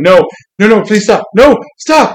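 high, loud pleading through tickling; mock pleading. Nightwing being tickled by Harley, in a high laughing plea. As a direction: beg her to stop, voice rising.

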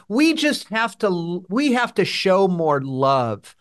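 slow, drawn-out imitation of other people's plea; imitated slogan, said slowly; mock pleading. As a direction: stretch it out, mildly mocking their earnest line. Acting out people he disagrees with.

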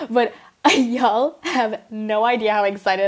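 giggling through the words; can't stop grinning and laughing; laughing excitedly. Real, not acted. Vlogger gushes to viewers, laughing. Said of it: "I'm, like, smiling so hard right now".

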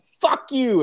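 high mock yell of a clueless kid; imitating Ron's yell. Ron yells at the old man at the door, high mock yell. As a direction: yelp it up high, dumb and defiant.

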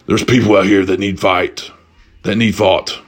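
low, lightly imitated superhero; a hint of solemn caped crusader; Batman voice. Batman explains his mission to a shopper, lightly imitated low voice. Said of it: "hits me with the Batman voice".

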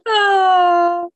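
big laugh, cry-like; laughing hard. Real, not acted. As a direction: cracks up loudly. Laughing at the joke.

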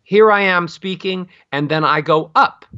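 "Here I am speaking" held level, "up" lifted without a slide; clean rise. Shown as a demonstration. Voice coach shows the better uptalk, cleanly rising on "up". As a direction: step cleanly up on "up", no scoop. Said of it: "But if you cleanly".

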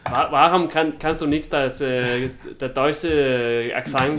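halting German with searching pauses; mock German accent. Co-host teasing friend who can't do the accent, mock German. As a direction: put on a German accent, stumbling through. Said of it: "tysk, det er ikke tysk accent".

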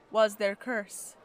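ordinary delivery

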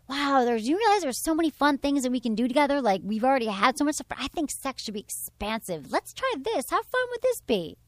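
upbeat suggestion, lifting at the end; playful and light. Acted. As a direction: pitch it as a fun idea, rising into enthusiasm. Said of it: "playful and light and".

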